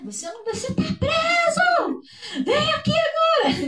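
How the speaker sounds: high, loud shouted order; mock police arrest. Policeman shouting an arrest at a suspect, mock furious yell. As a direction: yell it like an over-excited cop. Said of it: "dando uma voz de prisão".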